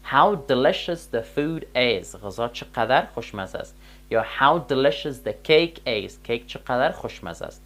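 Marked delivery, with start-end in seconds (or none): 0.1-2.2 "how delicious the food is" said very slowly; slow example sentence. Shown as a demonstration. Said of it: "جمله را تکمیل بسازیم". 4.4-6.1 "how delicious the cake is" drawn out slowly, a little louder; slow example sentence. Shown as a demonstration. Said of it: "جمله را تکمیل بسازیم".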